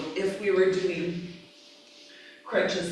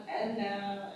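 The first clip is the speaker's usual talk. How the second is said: softer, late-night radio cue; slow Shavasana voice; 2 semitones higher, 7 dB quieter than usual. Shown as a demonstration. Teacher guiding students in Shavasana, slow and softer. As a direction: ease them down softly, with more calm. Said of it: "then I'll be more slow".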